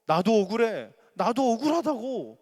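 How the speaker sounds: loud, high cry of injustice; aggrieved protest. Acted. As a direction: protest it like a wronged man. Job's protest, voiced.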